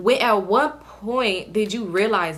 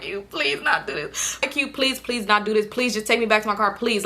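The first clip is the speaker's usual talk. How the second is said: begging. Retold or imitated. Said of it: "I'm begging this man".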